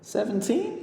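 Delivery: put-on high, rising astonished child; little girl amazed at his age; surprised girl. A narrator's reading. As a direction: echo the number in disbelief. Girl in disbelief.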